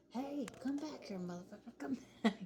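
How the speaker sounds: high mock shout after a thief; mock guard yelling. The speaker as security guard chasing a thief, hammed-up yelling. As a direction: yell after him like a useless guard. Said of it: "It's like".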